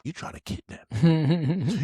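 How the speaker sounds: high mock-outraged question; retold yelp of suspicion; indignant alarm. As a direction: act out startled disbelief, rising at the end. Acted alarm at being handcuffed.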